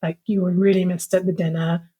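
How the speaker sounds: understated, earnest apologising; heartfelt apology. Retold or imitated. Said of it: "heartfelt message".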